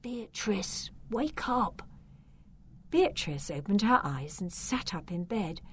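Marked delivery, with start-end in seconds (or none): 0.0-1.8 soft unvoiced whisper; boy whispering to wake the sleeping girl. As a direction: wake her gently in a whisper. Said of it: "He murmured".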